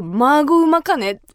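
put-on old-school Kumamoto local, drawn out; older-generation Kumamoto dialect. Shown as a demonstration. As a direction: draw out the stronger Kumamoto dialect. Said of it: "もうちょっと上のランクに行くと".

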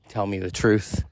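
low, firm teacher voice; stern teacher. Retold or imitated. Teacher questioning a pupil who cussed, stern and low. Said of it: "I said it just like that".

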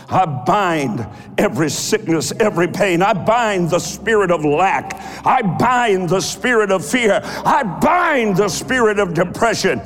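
building from firm to shouting; fierce commanding prayer. Acted. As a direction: command the spirits, rising to a roar. Preacher binding spirits, rising to shouts.

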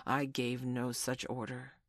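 slow, subdued denial; shaking a little. A narrator's reading. Hook startled, denying the order to his lads, shaken. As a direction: deny it slowly, a touch unsettled. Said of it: "shaking a little".

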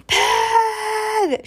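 loud, high furious yell; shout. A narrator's reading. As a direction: yell at the pig in rage. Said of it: "shouted Eugenia".

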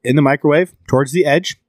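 talking through hiccups; words jolted by hiccups. Real, not acted. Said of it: "I can't keep talking through these hiccups".

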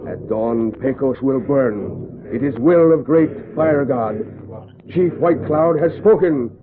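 loud, commanding proclamation; war command. Acted. Chief announcing to his braves that Pecos will burn, loud and commanding. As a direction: rouse the braves to burn the town.

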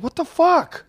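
high, loud outburst of disbelief; imitated yelling. Fan retelling his pacing at the TV, exasperated yell. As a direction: yell it at the TV in frustration. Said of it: "Are you yelling?".

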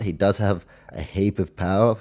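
speaking through a burp. Real, not acted. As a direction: burp breaking into the words. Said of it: "Sorry, I'm burping now".

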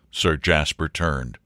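plain reading voice

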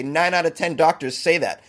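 hammed-up insistence to cap a rant; mock-authoritative claim. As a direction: state the bogus statistic with mock conviction. Mock claim, then taken back.

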